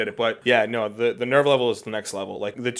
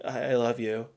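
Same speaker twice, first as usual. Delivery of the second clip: soft, halting retold proposal; tender; 4 dB quieter, slower than usual. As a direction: replay the love confession softly and slowly. Retelling his proposal words.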